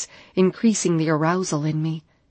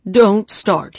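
mocking imitation; 3 semitones higher, 8 dB louder than usual. A narrator's reading. Doctor mocks Carter.

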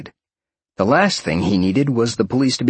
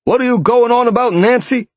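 louder, higher, exasperated man; 13 semitones higher, 5 dB louder than usual. A narrator's reading. Jeff doubting Nancy's story, loud and exasperated. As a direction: snap back in loud disbelief.

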